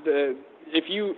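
halting, stop-start answer; hesitant stammer. Real, not acted. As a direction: stumble over the words nervously. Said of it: "Why you stuttering".

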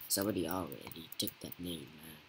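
quick words through a laugh. Real, not acted. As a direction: laugh it off as you speak. Laughs at the name.

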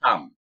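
"Tam" said loud with a long stressed a; stressed Russian word. Shown as a demonstration. Teacher modelling a stressed vowel for students, loud. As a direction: lean hard on the a of "Tam". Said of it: "Vurgu dolayısıyla tek A'nın üzerinde".

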